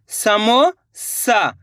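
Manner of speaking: समो सा split apart, very slow: समो, pause, सा; syllable by syllable. Shown as a demonstration. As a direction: stretch समो सा out slowly for the class. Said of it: "जैसे समोसा बोलोगे समो". (धीरे-धीरे अक्षर तोड़कर समो सा)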